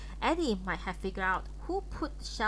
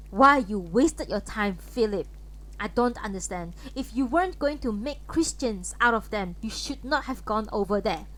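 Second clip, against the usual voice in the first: louder, sharp parting reproach; angry mother; 6 dB louder than usual. Acted. Mother rebuking Philip on her way out, louder and angry. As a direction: fling the words back at him from the door. Clara turns on Philip angrily.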